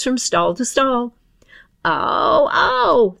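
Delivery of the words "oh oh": startled dame. Acted. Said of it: "thought the dame".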